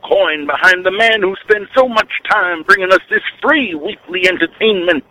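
hint of a radio preacher; lightly voiced preacher sermon; Reverend Wolfman. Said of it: "This is the Reverend Wolf Man".

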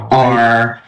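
"R" drawn out with a hard R. Shown as a demonstration. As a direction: say "R" with a strong rhotic ending. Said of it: "like, a hard R accent".

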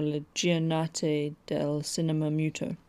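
a self-mocking, barely Italian accent on the festival name; terrible Italian accent. Shown as a demonstration. Host naming the Italian festival in a mock Italian accent. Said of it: "in my terrible, not in any way Italian accent".

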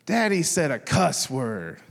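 a hint of a child tattling; tattling little daughter. Daughter running to her mom to tell on Daddy, lightly voiced tattling. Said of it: "she was running to her mom".

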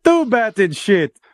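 slow Count-style counting; imitating the Count from Sesame Street; Transylvanian accent.

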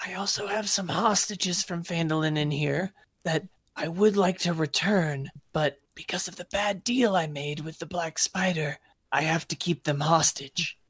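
lightly voiced goblin king; a hint of a sly goblin ruler. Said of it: "he's like".

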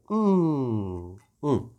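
quiet savoring hum after a sip; appreciative hum. Real, not acted. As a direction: hum with pleasure over the drink. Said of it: "tô tomando aqui um, um gostoso Negroni". (murmúrio de quem saboreia)

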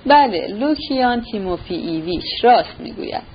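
a hint of embarrassed, head-down confession; ashamed admission. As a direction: own up sheepishly, eyes on the floor. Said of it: "خجالت کشید و سر به زیر انداخت".

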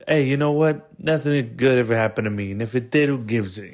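lightly imitated jaded mobster, punchy opening; cynical Italian friend. Cynical Italian friend answering his pal about arcs, lightly imitated cynicism. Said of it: "his other Italian friend is so cynical".

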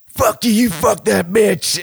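high, loud, slow snarl; mock angry outburst. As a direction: spit it at him slowly. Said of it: "Jake just goes".

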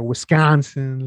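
put-on drawn-out "Wisconsin" in a Midwestern accent; imitated Wisconsin accent. Pointing out a friend's accent, slow Midwestern echo. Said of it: "I kinda heard an accent right there".

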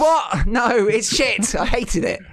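sudden high, loud outburst; real indignant disbelief; outraged. Real, not acted. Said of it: "'cause it annoyed me that much".

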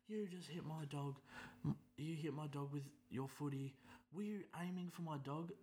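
high, shrill-pitched mock old-lady accusation. Old woman accuses him.

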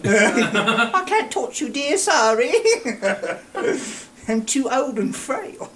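put-on slow, high, shaky-sounding old queen declining politely; Queen of England. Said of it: "And the handshake's from the Queen of England".

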